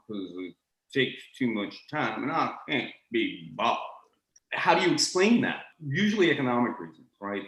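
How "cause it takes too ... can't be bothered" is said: lazy Richmond drawl. Retold or imitated. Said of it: "not bothering to make a diphthong".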